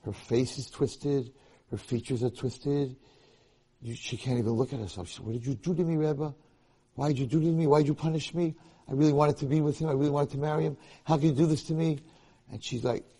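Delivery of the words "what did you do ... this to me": high, pleading mock outcry; imitated distraught complaint, short of screaming; retold yelling. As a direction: protest in a raised, urgent voice. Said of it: "She starts screaming and yelling".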